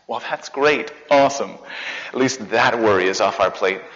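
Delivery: a lightly voiced, relieved aside; mock relief, "that" leaned on; a touch of smug relief from the Jews. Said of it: "said the Jews".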